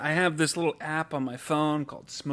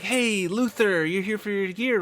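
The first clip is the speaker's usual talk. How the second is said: over-friendly manager greeting; 6 semitones higher, 3 dB louder than usual. Retold or imitated. Manager comes by to greet Luther, over-friendly. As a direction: stretch out the hey like a chummy manager.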